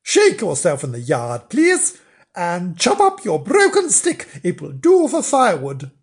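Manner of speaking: mildly scolding storybook wife; bossy wife. Acted. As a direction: send your husband off with instructions. Wife orders husband out to yard.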